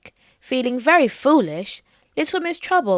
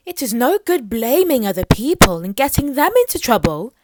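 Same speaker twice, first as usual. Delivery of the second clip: stern queen; 3 semitones higher, 5 dB louder than usual. Acted. Mermaid Queen ordering Little Miss Trouble to behave: stern, loud scolding. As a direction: lay down the law to a naughty girl.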